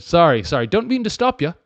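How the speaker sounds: lightly put-on British accent. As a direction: apologise with a hint of British. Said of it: "I just made her British at the end there".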